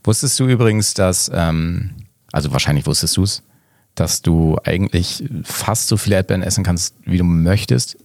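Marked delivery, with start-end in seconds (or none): 3.9-6.9 "fast" punched out as a caveat; "fast" set apart with emphasis; stress on FAST. Real, not acted. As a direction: lean clearly on the word "fast". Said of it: "Betonung liegt auf fast".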